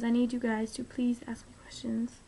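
breathy whispered plea; soft whispered ask. Real, not acted. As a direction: whisper it to the viewers.

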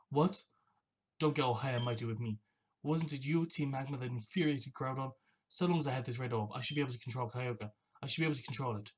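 lightly acted stubborn gang boss; lightly voiced villain. Voices villain answering rival.

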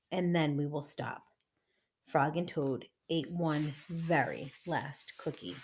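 measured, emphatic storybook narration; story reading for children. A narrator's reading. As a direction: read it aloud to little listeners.

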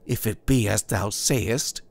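lightly voiced young man, troubled; doubtful young Puritan.

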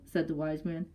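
ordinary delivery, nothing marked

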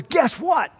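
God announcing. Retold or imitated. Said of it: "God says".

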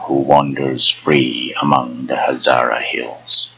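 a hint of a cursing crone; old crone prophecy. Old Miriam's curse.

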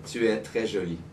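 "Tu es très jolie" said again for a learner; French phrase repeated. Shown as a demonstration. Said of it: "that was pretty fast".

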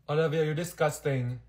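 usual speaking voice

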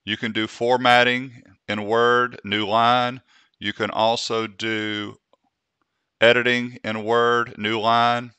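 measured, deliberate dictating with gaps between phrases; slow dictation. Real, not acted. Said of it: "I'm talking a little slow".

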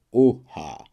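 a second, fading cheer. Acted. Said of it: "ozwały się radosne".

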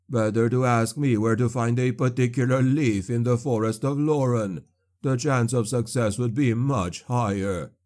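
mock his hopeless hunt; scornful sorcerer.

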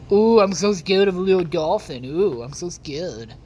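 mock fear. Mocking fake fear.

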